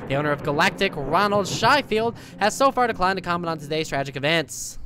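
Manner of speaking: lightly voiced old-timey newscaster; old-timey newsman. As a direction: read it like a radio newsman. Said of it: "voice of an old-timey newsman".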